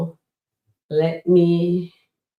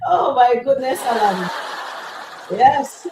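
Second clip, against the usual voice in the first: laughing through the words, higher; can't stop laughing at Alani; real amused laughter; 5 semitones higher than usual. Real, not acted. Laughing at chat comment.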